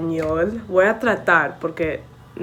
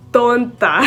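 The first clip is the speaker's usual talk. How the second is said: laughing; 3 semitones higher, 4 dB louder than usual. Real, not acted. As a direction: say it through a real laugh. Laughing at herself.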